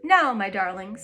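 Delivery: sugary coaxing switch; suddenly charming to the children; sweet. Acted. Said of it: "in quite a different voice".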